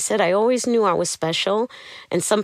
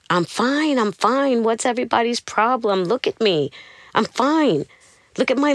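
retold scream; 5 semitones higher than usual. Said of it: "I just start screaming again".

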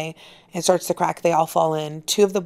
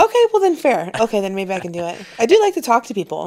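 fast, high and eager; excited; 4 semitones higher, 4 dB louder, faster than usual. Real, not acted. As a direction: talk yourself into it eagerly. Excited about swapping jobs.

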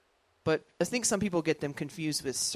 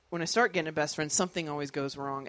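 ordinary delivery

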